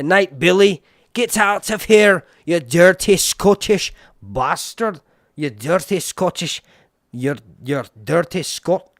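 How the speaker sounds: loud, slow joking shout; mock insult. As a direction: yell it like a pretend rant. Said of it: "No, I'm just kidding".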